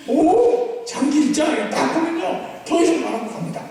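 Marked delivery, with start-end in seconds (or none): 0.1-1.5 knowing scoff. Shown as a demonstration. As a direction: sound like you know it all already. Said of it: "아는 척 해라". (다 안다는 듯 높은 "오")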